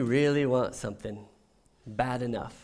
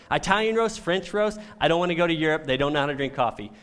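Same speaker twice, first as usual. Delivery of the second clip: mock disgust; 2 semitones higher, 4 dB louder, faster than usual. Real, not acted. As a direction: play up the coffee snob grievance. Mock rant about coffee.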